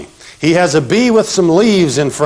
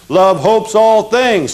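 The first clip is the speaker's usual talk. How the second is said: slow recitation; 5 semitones higher, slower than usual. Shown as a demonstration. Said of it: "Say it with me".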